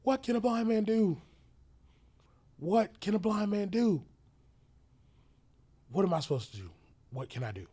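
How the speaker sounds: desperate shouted questions, high and loud; emotional yelling. Retold or imitated. Blind man yelling at his helper in despair. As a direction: yell it out in despair. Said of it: "I was just yelling".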